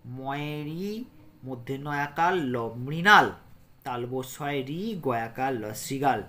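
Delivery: put-on slow, letter-by-letter spelling for children. Shown as a demonstration. Teacher spells words slowly for children, letter by letter. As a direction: spell each word out slowly, then say it whole. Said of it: "এই শব্দগুলো কিভাবে উচ্চারণ করে করে পড়লাম".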